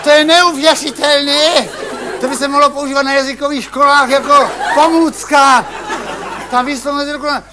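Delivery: mock French accent in Czech; lightly put-on French accent. Host jokes he speaks Czech with a French accent. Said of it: "já mluvím úplně s francouzským přízvukem".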